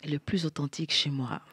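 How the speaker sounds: soft whispered musing; whispering. Real, not acted. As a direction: murmur it to yourself. Pondering the question.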